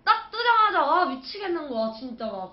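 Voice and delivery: loud burst, then fading; panicked recollection. Real, not acted. Wife recalling the scary pregnancy test. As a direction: burst out at the memory.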